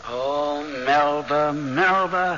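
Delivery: pitying sigh of her name. Acted. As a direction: call her name as if sorry for her. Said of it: "Why do you say ... like that?".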